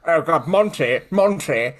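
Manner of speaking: high, hammed-up panicked plea; fretful Monty's friend. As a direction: beg Monty not to listen, mock alarm. Fretting voice begging Monty not to listen.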